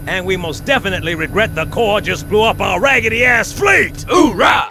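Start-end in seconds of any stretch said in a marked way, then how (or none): 1.6-4.1 triumphant shout. Acted. Sergeant cheering to his Marines over the radio, shouting. Johnson cheers fleet destroyed. 4.1-4.7 loud, punchy Marine cry; hoorah shout. Acted. Sergeant rallying his troops after a win, shouting.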